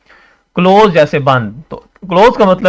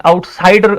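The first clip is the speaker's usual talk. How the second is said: आउटसाइडर with साइडर punched; over-emphasize the middle of आउटसाइडर; wrongly stressed; 4 semitones higher than usual. Shown as a demonstration. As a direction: push hard on साइ in आउटसाइडर. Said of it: "ये गलत हो जाएगा".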